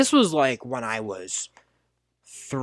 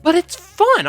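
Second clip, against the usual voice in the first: put-on high whiny kid protest; 13 semitones higher, 5 dB louder than usual. Kid answering mom, high and whiny. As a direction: plead it's just fun. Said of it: "I'm like".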